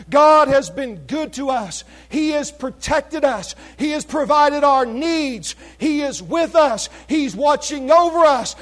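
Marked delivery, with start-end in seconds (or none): none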